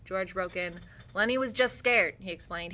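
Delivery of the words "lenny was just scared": defensive. A narrator's reading. George breaks in defending Lenny.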